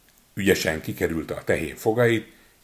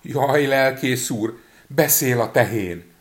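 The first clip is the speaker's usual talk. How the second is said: frightened; 5 semitones higher, 5 dB louder, slower than usual. A narrator's reading. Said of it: "Rémülten sietett".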